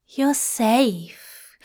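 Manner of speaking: gently firm reassurance; reassuring. A narrator's reading. Zira comforting Crowley in bed, reassuring. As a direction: soothe him out of the nightmare. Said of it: "Zira assured him".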